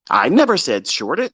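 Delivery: never said pushed up with a rise; stress on never. Real, not acted. Correcting students who misread him, stressing never. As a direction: lean on never. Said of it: "contrast short buy watch".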